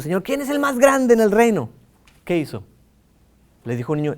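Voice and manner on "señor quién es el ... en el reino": tag. Retold or imitated. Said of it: "le preguntaron a los discípulos".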